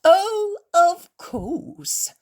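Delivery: loud, slow, sarcastic drawl; mocking imitation. Innkeeper mocks the Pharisees, imitating their voices. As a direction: ham up their pious words to mock them. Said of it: "The host imitates their voices".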